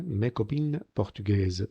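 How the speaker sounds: MES COPINES with no S sound before the C; silent S. Shown as a demonstration. Teacher showing where liaison is absent, MES COPINES slowly with silent S. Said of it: "Veis que la S no suena".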